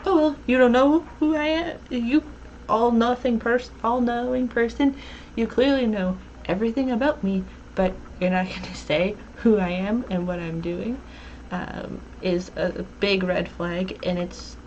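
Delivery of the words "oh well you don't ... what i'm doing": lightly voiced indignant young man, exasperated; a hint of a whiny Caleb mocking the cagey host. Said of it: "when Caleb's like".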